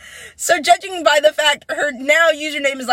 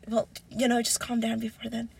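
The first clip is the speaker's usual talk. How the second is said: soft, low imitation; hushed, lower dismissive murmur; retold brush-off; 4 semitones lower, 11 dB quieter than usual. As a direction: quietly imitate someone putting you off.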